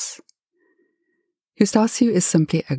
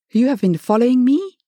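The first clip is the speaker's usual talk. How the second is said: hissed; 8 semitones higher, 3 dB louder than usual. A narrator's reading. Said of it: "he hissed".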